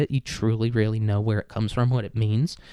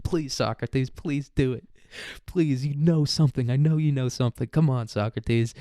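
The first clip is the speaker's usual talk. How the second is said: mock pleading; 3 semitones higher than usual. Comedian begging Socrates to do better, mock pleading. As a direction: plead as if with a wayward son.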